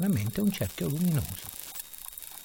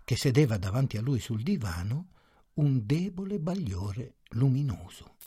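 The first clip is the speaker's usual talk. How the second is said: ordinary delivery, nothing marked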